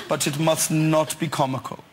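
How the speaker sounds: lightly imitated solemn director; commercial director impression. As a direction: give it as a director's serious warning. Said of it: "And he spoke like this".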